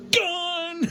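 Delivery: high gone then a breathy laugh; laughing cry. Real, not acted. Vlogger joking his subscribers left, laughing high. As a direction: burst out laughing at the joke.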